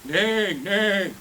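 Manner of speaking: high, loud storybook neighing; horse neigh. A narrator's reading. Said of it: "said the horse".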